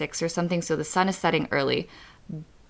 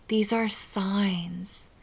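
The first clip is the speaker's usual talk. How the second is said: whispering; 5 dB quieter, much slower than usual. Real, not acted. Whispered emphasis on signs.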